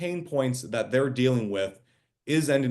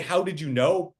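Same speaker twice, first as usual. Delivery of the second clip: high, excited mock quote of a delighted client; amazed reply; 5 semitones higher than usual. A client thrilled by the cold message, high and amazed. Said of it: "they don't say".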